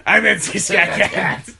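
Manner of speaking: cartoon cat voice. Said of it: "It was".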